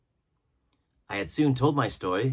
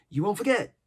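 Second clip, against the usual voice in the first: higher, pleading castaway worried he'll be forgotten; anxious; 9 semitones higher, 4 dB louder than usual. A narrator's reading. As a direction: ask it nervously, needing reassurance. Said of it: "he inquired anxiously".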